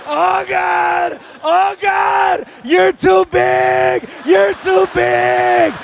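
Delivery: high shouted, slow strained pleading; squashed kid yelling in pain; crushed cry. Retold or imitated. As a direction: cry out under the weight. Son crushed under dad.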